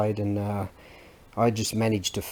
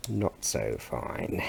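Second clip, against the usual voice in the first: lower, softer and slow, rueful; rueful mutter; 12 semitones lower, 11 dB quieter, slower than usual. Real, not acted. Looking at the broken bit, muttering ruefully. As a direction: let it sink low and slow under the breath. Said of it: "Now that's not so fine".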